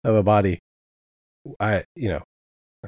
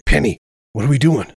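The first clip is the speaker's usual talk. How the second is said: urgent call; 2 semitones higher, 7 dB louder, faster than usual. Acted. Player character calls out to Penny.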